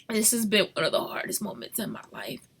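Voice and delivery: whispered, barely voiced. Real, not acted. Mother confessing hardest time, whispered. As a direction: breathe it out, no voice.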